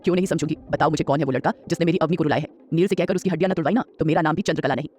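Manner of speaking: a hint of a gentle old grandmother asking.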